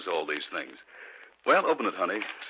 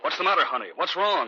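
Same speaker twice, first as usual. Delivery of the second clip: worried; 8 semitones higher, 3 dB louder than usual. Acted. Husband worried about his wife.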